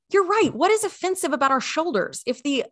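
high, outraged mock rant; high indignant rant at the dress code; indignant quote. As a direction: act baffled and fed up with the rule. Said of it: "we were like".

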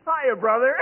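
high squeaky monkey reply ending in a laugh. Acted. The monkey greets Costello with a high squeaky laugh. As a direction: chatter back like a cheeky monkey.

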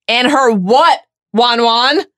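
mocking pet name. Harry mocking Lavender's pet name.

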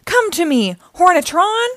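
grand call climbing high; villain summons. A narrator's reading. Dreg summons his spacecraft, commanding call.

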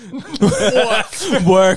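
put-on Boston accent. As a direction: echo in a loud Boston accent. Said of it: "Now he's Boston".

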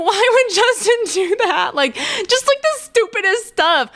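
high, squeaky mocking voice, imitating her own sad self; mock whiny self. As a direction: make fun of your own crying self in a silly high voice. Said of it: "I'm like".

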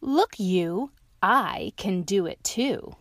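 eager little dog showing off; lightly voiced boastful dog. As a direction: brag to the lion like a playful dog.

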